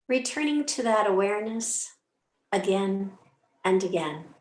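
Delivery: unhurried meditation guidance with long pauses; calm, spacious yoga-teacher cueing; guided meditation. Acted. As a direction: gently guide listeners into stillness, phrase by phrase. Leads a short meditation.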